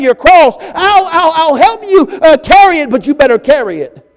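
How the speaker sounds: I'll help, but you better carry it; high mock grudging voice. Pastor voicing a reluctant helper to congregation, high mock grudging voice.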